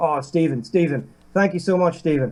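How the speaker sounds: put-on grateful man's voice. Retelling an old man thanking the driver for a lift: imitating a grateful man. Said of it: "he jumped in the car so grateful".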